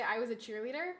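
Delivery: lightly imitated Valley Girl uptalk. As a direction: quote it with a hint of Valley Girl. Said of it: "go into a Valley Girl voice".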